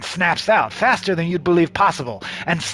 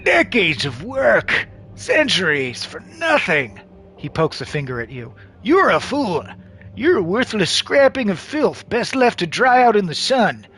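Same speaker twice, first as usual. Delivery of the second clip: furious villain; 3 semitones higher than usual. Acted. Xanadu berates a fool.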